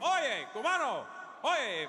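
high calls of Oye cubano; Cuban calling out. Retold or imitated. Floridians shouting at the comic in a Cuban manner. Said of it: "they're like".

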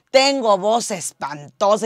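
slow, mock-gloomy complaint about an ugly voice; a light imitation of someone whining; complaining about own voice. People who hate their voice, whining mildly to themselves. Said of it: "Hay gente que dice".

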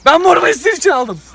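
high, loud proclamation; loud vlogger announcement. Acted. Vlogger asks followers for likes, loud proclamation.

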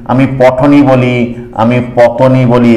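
slow, deliberate word-by-word reading; slow demonstration. Shown as a demonstration. Teacher spelling out sound-alike words for students, slow. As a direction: lay out each example word slowly so it sinks in. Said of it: "পঠন যদি আমি বলি".

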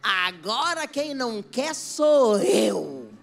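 slow, drawn-out, proud retort; smug slow put-down. Retold or imitated. Wife telling the husband she no longer wants him, smug slow put-down. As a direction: savour each word of the refusal.

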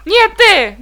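high loud pleading cry; panicked plea. Real, not acted. Gamer pleading with an enemy in panic. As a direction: beg the enemy to stay away.

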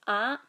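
ah rising like a question; ah with a questioning lift; Hmong high tone. Shown as a demonstration. Teacher demonstrating tone B, rising ah. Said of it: "sounds like".

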